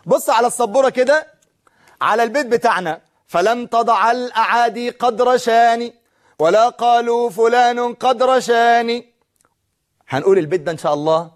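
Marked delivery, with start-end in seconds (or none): 3.3-9.1 measured poetic reading; slow verse recital. Shown as a demonstration. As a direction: recite the line slowly, word by word. Teacher recites verse slowly.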